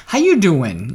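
lightly put-on New Jersey greeting; New Jersey accent. Shown as a demonstration. Co-host tries out an opening phrase, New Jersey accent. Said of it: "'cause I'm from New Jersey".

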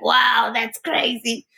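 drawn-out, impressed wow; amazed reaction. Retold or imitated. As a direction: imitate wowed cousins, slowly. Quoting cousins' amazed reaction.

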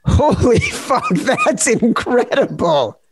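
high, drawn-out astonishment; amazed. Real, not acted. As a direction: marvel at it, slow and high. Host amazed by guest's accent.

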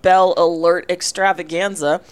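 upbeat radio sponsor read, slowed on the big names; announcer voice. Pretend. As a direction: sell it like a bowl-game promo host. Mock sponsor read and bowl preview.

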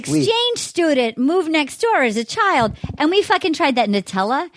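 hammed-up Boston accent. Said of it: "Can I do a Massachusetts accent".

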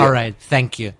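a hint of a hammy theatrical father; theatrical dad voice. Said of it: "catchphrases from my dad".

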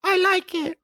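put-on high, childish squeaky voice; baby voice. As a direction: mimic a little kid. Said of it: "I made, like, a baby voice".

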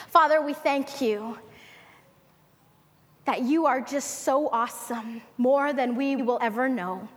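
calm, earnest spoken prayer. Acted. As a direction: lead the congregation in prayer. Closing prayer.

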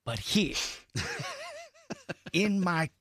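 lightly put-on film-star voice, words spaced out; Jack Nicholson. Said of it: "is that Jack Nicholson".

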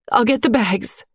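a touch of a sob in the throat; choked with a sob. A narrator's reading. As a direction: barely hold back the tears. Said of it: "her throat nearly sealed with a sob".

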